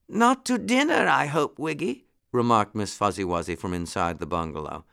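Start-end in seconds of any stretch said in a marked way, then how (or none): 0.1-2.1 high-pitched fussy muskrat lady; muskrat lady, put out. A narrator's reading. Muskrat housekeeper objecting from inside the bungalow, put out.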